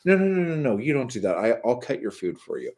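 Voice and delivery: insistent offer, imitating a doting older friend; Harry Dean. Harry Dean offering to cut the wife's food, gently insistent. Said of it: "he was always like".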